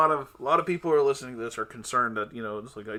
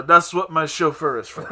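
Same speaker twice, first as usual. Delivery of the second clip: laughing; 4 semitones higher, 7 dB louder than usual. Retold or imitated. Laughing retold reply to cop.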